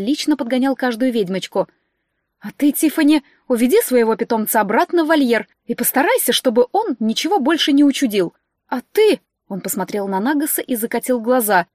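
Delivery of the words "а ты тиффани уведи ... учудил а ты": louder, bossy steward; fussy steward orders. Acted. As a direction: order them about, fussy and loud.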